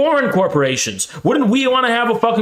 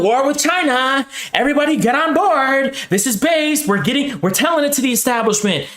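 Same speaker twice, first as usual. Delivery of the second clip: hammed-up hype-man voice rising higher; mock war cheerleader; 4 semitones higher than usual. To viewers, mocking populists who will cheer the war, in a hammed-up higher hype voice. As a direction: parody a cheering bro selling war. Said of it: "they're gonna, like, sit there and pretend".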